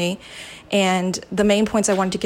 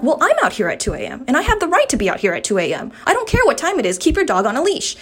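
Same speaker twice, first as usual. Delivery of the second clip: indignant comeback, climbing higher in pitch; retold angry retort; 5 semitones higher than usual. Retelling her row with the neighbor, indignant. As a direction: re-enact arguing back, building in pitch.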